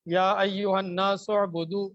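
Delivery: slow chanted Quranic recitation; slow Arabic recitation. Shown as a demonstration. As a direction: recite slowly and fully, like tilawat. Teacher recites verse slowly.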